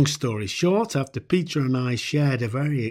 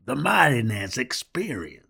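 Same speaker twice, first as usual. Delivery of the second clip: put-on "Martinez" in a light mid-Atlantic accent, falling; quoting "the Martinez Experience" in a mid-Atlantic accent. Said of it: "for what he called".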